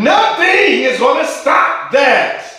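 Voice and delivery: high, slow and loud, each phrase held out; preaching climax. Acted. Preacher rallying the answering congregation, high, slow and loud. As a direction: lift the church to its feet.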